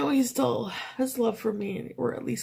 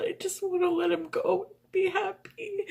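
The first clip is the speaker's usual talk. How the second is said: crying; 6 semitones higher than usual. Real, not acted. Tearful admission about letting go.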